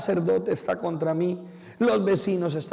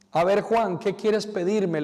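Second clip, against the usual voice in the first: a light, slightly raised and louder voice of God; voicing God; 4 semitones higher, 3 dB louder than usual. Priest voices God asking Juan what he wants, lightly raised. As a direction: offer it like a generous God, a touch grand. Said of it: "le dice Dios".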